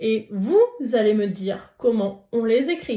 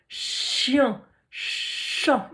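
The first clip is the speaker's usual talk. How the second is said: whispered example. Shown as a demonstration. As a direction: breathe chat out gently. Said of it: "avec le son ch". (chat chuchoté)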